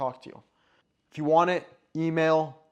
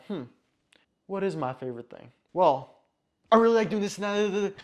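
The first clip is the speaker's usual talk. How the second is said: a pause to think, then a higher, louder rushed answer; a quick thinking noise, then a keen, raised reply; hesitant then eager; 4 semitones higher, 5 dB louder than usual. Shown as a demonstration. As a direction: mull it over briefly, then blurt the answer out. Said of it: "You don't have to fill the silence".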